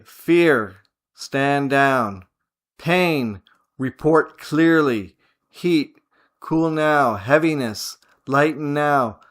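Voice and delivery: commanding. Shown as a demonstration. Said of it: "the commanding tone becomes useful".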